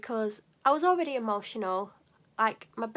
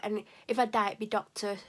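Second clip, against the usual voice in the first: dramatic complaint; 3 dB louder than usual. Retold or imitated. Patient melodramatically blames doctor to receptionist, overwrought. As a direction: play the tragic victim blaming the doctor. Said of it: "how dramatic I was being".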